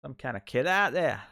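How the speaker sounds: put-on a weak stab at an Australian accent, barely off his own voice; failed Australian accent. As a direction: try an Australian voice and miss badly. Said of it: "I can't do an Australian accent".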